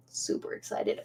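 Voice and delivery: breathy whisper, no voice. Real, not acted. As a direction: whisper it to yourself. Whispered repeat of excited.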